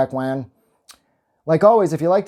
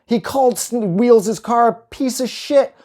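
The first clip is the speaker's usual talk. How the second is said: giddy shock; 9 semitones higher, 5 dB louder, slower than usual. Real, not acted. Gleeful shock at swearing.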